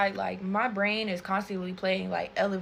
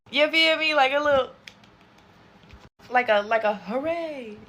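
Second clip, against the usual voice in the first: little hooray; 5 semitones higher, 5 dB louder than usual. Retold or imitated. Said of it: "I had let out a little".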